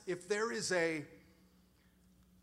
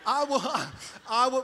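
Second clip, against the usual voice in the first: much higher and louder, gloating through a laugh; triumphant mock yell; 6 semitones higher, 9 dB louder than usual. Dad gloating over his crying kids, high mock-triumphant shout. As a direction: crow it like a proud victor. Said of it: "I'm like".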